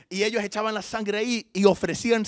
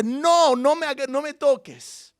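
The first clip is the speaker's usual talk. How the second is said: higher, louder, urgent no; urgent stop; 9 semitones higher, 6 dB louder, slower than usual. Acted. Jesus telling clinging Mary not to touch him, urgent. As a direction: stop her at once, firmly.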